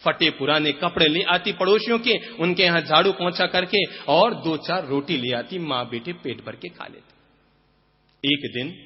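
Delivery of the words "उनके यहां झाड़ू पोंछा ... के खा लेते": usual speaking voice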